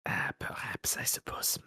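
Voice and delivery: hushed resignation lifting to a high, jolly finish; French-accented gambler. Acted. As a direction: give in, then brighten in a French accent.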